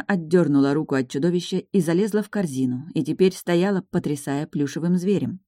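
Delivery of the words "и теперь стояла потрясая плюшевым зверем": plain reading voice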